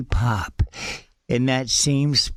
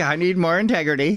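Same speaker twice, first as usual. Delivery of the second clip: laughing callback; 4 semitones higher, faster than usual. Real, not acted. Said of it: "that integrity".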